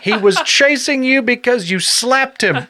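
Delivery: high, slow, laughing jabs; laughing tease. Real, not acted. Laughing at the co-host's bull story. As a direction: rib him through laughter. Teasing laugh-filled retort.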